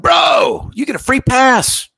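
high-pitched mock shout of glee; excited. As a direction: imitate a thrilled buddy crowing at the news. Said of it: "he's all excited".

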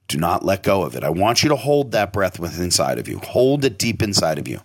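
measured coaching with long pauses; guided meditation. Shown as a demonstration. Host leading listeners through breathwork, measured guided meditation. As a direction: talk them through holding the breath.

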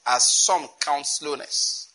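"as some count slowness" very slowly, leaning on "count"; emphatic repetition. Shown as a demonstration. Preacher pointing out a verse's emphasis, "as some count slowness" slow and weighted. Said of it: "Notice that emphasis".

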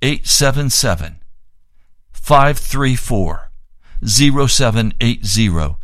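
number read out slowly in separate groups; slow, emphatic dictation with gaps. Real, not acted. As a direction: give the phone number deliberately, pausing between groups. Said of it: "I'll give the number again slowly".

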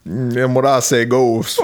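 slow, mock Southern patriarch accent. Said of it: "keep talking like that".

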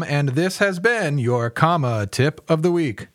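upbeat, slowed promo voice for the weekly tip; segment announcer read. Acted. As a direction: read it like a radio spot host.

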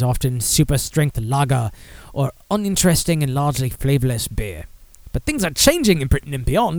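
a light put-on British accent reading the article; reading the Telegraph in a half-hearted British accent. Vlogger reading a UK newspaper article aloud, lightly British accented. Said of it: "I should probably do this in an accent since it's Telegraph U K".

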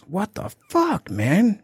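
high, slow outraged "what the fuck"; mock the angry shopper snapping back; retold outburst. Retelling the grocery store lady's outburst, high and drawn out. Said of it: "She starts going off".

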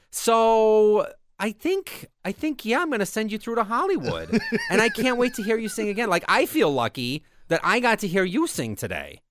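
put-on high, slow, gushing old Jewish lady. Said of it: "she acts like an old Jewish lady".

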